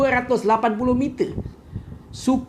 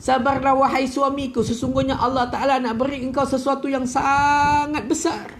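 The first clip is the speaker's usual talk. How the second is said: comforting wife; 4 semitones higher than usual. Retold or imitated. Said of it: "dia selimutkan suami, dia beri ketenangan".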